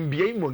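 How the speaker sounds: "Mbeumo" said as im-bee-AY-mo; corrected pronunciation. Shown as a demonstration. Host repeating the corrected player name, careful pronunciation. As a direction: sound out "Mbeumo" with bee-ay inside.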